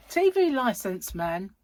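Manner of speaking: slightly husky everyday voice. Real, not acted. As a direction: talk with a husky edge. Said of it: "I don't know why I sound so husky".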